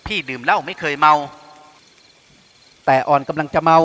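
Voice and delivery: lightly slurred, drifting tipsy; mild drunken murmur. A narrator's reading. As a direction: sound a little drunk and sleepy. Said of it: "หญิงสาวพูดเสียงอ้อแอ".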